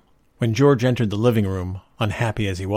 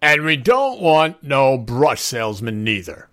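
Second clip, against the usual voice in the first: put-on slow, loud, higher drunken ranting; belligerent drunk; 5 semitones higher, 5 dB louder, slower than usual. A narrator's reading. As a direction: lay down the law like a surly drunk. Drunk Art rants after hiccuping.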